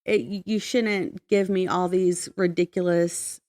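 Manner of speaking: normal talking voice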